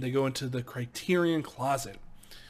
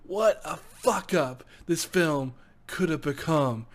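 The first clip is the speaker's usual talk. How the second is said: laughing; 2 semitones higher, slower than usual. Real, not acted. Laughing disbelief at the film.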